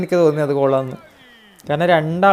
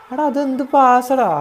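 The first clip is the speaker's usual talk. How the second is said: high, slow disbelief; amazed exclaim; 8 semitones higher, 4 dB louder, slower than usual. Real, not acted. Gamer awed by a pass, slow amazed cry. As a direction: stretch it out in awe.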